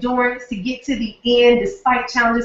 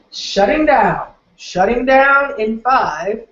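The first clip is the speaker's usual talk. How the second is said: mock robot shutdown; much slower than usual. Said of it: "I know I'm silly".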